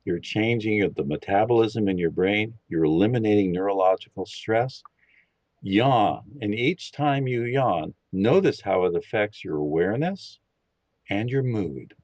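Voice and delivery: calm, steady guiding voice for a listening exercise; guided meditation. Acted. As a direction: lead them gently into listening. Leads a meditation.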